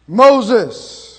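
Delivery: loud, carrying call of a name; divine call. Acted. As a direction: call out across the distance. God calls from bush.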